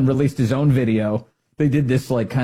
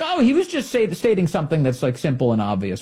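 mild mock paraphrase; 3 semitones higher than usual. Host paraphrasing the official's clean-up, mild mock voice. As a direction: lightly voice someone brushing it off. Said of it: "He's like".

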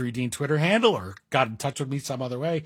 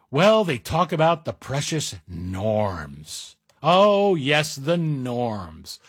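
sarcastic; much slower than usual. Real, not acted. Mocking the precious norms.

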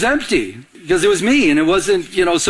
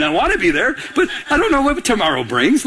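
laughing; 4 semitones higher than usual. Real, not acted. Laughing at his own joke.

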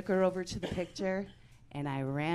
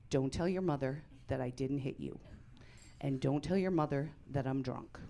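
lowered, hushed dad voice; low hushed dad; 5 semitones lower, 4 dB quieter than usual. Retold or imitated. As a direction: murmur it like a sneaky dad.

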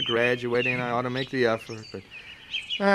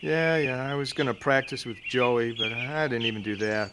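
stoned; 4 dB quieter than usual. Acted. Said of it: "Wow, you're really stoned".

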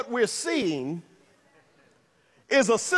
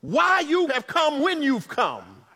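Martha's inner voice; 3 semitones higher than usual. Acted. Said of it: "something in her heart that tells her".

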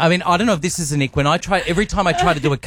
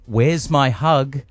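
mocking baby talk; much slower than usual.

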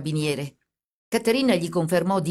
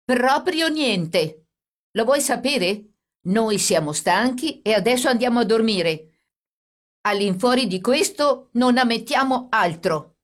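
higher, louder, slow defiant outburst; trembling anger; 6 semitones higher, 5 dB louder than usual. A narrator's reading. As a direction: stand up and refuse, voice shaking. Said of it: "tremante di paura e di collera".

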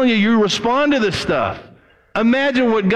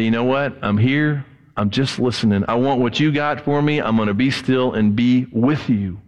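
low, calm surrender; a hint of hushed devotion; 5 semitones lower than usual. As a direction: settle down and simply be present. Voicing a quiet prayer.

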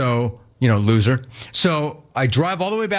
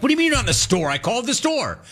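high-pitched disbelief, much higher; incredulous; 9 semitones higher, faster than usual. Retold or imitated. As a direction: squeak out the indignant question. Exasperated at phone agent.

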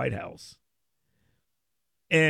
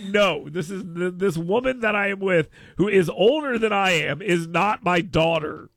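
mock indignant; 3 semitones higher than usual. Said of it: "And I was like".

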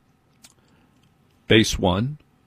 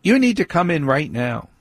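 higher, flat firm daughter calling him in; teen daughter's order; 5 semitones higher than usual. Retold or imitated. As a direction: mimic the daughter's insistence. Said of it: "Has no interest".

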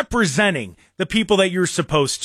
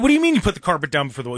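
incredulous; 2 semitones lower, much faster than usual. Real, not acted. Incredulous rant reply.

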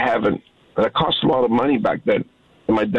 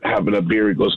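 normal talking voice

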